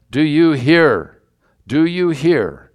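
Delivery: slow, drawn-out challenge, mildly angry. Acted. Indignant priests confronting Jesus, mildly angry. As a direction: press each word slowly with a touch of anger. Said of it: "They were angry".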